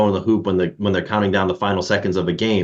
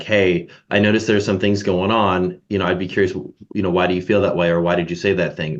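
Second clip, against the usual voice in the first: inquisitive. Shown as a demonstration. Manager gently asking a teammate what's going on, curious and calm. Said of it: "the way you said it was very inquisitive".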